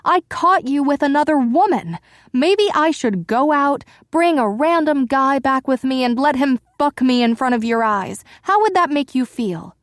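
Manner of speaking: high and loud, furious taunting; wife taunting her husband, high and loud; voice risen. Acted. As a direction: keep the voice way up, taunting him. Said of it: "My voice rose higher".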